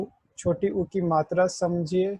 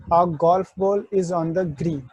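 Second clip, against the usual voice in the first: very slow, each word spaced out; slow mnemonic; much slower than usual. Shown as a demonstration. Teacher giving the golf ball trick for ओ, slow. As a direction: spell out the golf ball line slowly. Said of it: "एक golf ball की तरह लगेगा".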